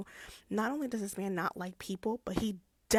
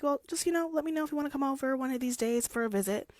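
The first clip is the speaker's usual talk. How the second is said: high sweet mock-friendly; 6 semitones higher, faster than usual. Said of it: "Heathcliff's like".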